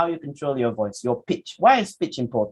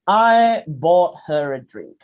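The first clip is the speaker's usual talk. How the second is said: slow, loud, spaced-out line; deliberate example reading; 2 semitones higher, 6 dB louder, slower than usual. Shown as a demonstration. Teacher introducing the example sentence, slow and loud. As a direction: present the sentence slowly and firmly.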